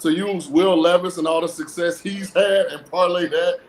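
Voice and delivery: dry mock praise; sarcastic. Real, not acted. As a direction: say it like you don't mean it. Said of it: "and I'm being sarcastic".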